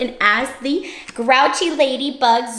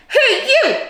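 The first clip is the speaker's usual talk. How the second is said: high, squeaky challenge; grouchy ladybug; 12 semitones higher, 4 dB louder than usual. Acted. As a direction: pick a fight in a tiny voice.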